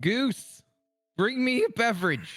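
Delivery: very high, drawn-out, hollered yell. In character, yelling across the bar for a drink: yelling across the bar. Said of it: "I yell across the".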